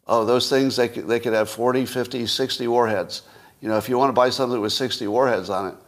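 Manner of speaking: light boastful salesman voice, close to his own; lightly imitating a bragging salesman; Trump impression. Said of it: "that's how he talks".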